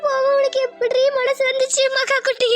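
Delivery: bereaved mother's high, keening lament; grief-stricken wail. Acted. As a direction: wail to your lost child. Mother mourns her dead daughter.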